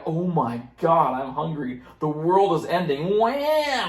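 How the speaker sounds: mock infant screaming. Hungry infant protesting that the world is ending, mock wailing. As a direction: imitate a baby's overblown meltdown. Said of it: "They're screaming and yelling".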